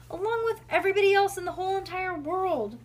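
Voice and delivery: high, loud sulky complaint; grumpy child. A narrator's reading. Bean blames her mother for missing out, loud grumpy whine. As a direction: rub it in like a wronged kid. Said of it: "Bean said grumpily".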